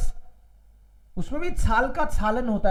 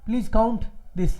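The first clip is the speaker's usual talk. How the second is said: very slow, spelled-out example; slow example sentence; much slower than usual. Shown as a demonstration. Teacher slowly giving an example sentence. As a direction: lay out each word slowly for the class. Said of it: "और एक count".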